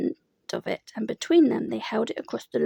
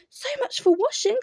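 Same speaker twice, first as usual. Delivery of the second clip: higher, gloomy donkey voice; Eeyore voice; 13 semitones higher than usual. A narrator's reading. Eeyore grumbles about washing, glum donkey voice.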